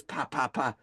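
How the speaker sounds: stuttered pops into a slow, drawn-out word; eerie sputter, then a slow reveal; weird demon taunt. Retold or imitated. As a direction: imitate a demon toying with its victim. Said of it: "he does this crazy weird thing".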